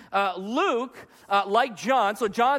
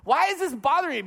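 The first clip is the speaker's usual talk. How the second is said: higher-pitched frustrated self-questioning; 5 semitones higher than usual. Retold or imitated. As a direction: ask yourself in mild exasperation. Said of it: "so frustrated by this".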